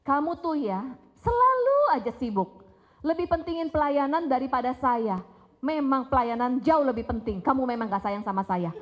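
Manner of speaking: mild mock reproach to a busy husband; wife lightly acting out her resentment at her husband; accusing complaint. Shown as a demonstration. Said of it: "Beda begini".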